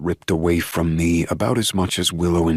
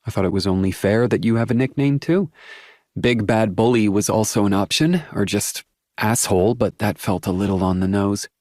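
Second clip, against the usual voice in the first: put-on young woman voice; 5 semitones higher than usual. A narrator's reading. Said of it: "she says with a shrug".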